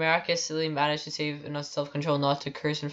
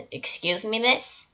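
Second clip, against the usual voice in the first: raised polite voice; 6 semitones higher, slower than usual. Retold or imitated. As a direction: speak up like to a deaf grandma. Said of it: "so not deaf grandma voice".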